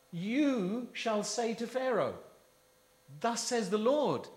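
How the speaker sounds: preacher intoning God's command to Moses; solemn voice of God. Retold or imitated. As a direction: lift and slow it, God speaking through Moses. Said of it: "He says".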